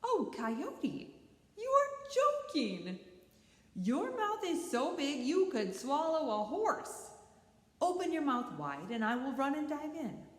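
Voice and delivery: high sweet lamb voice. Acted. Lamb flatters Coyote.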